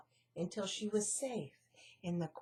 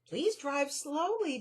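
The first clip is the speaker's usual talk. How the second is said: a touch higher pleading; begging; 5 semitones higher, 4 dB louder than usual. Acted. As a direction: plead with the driver. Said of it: "begged Annie".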